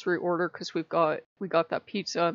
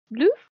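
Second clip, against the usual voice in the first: gentle manatee snuffle; 8 semitones higher, 7 dB louder than usual. Retold or imitated. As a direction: puff it out like a gentle sea cow nudging. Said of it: "very gently".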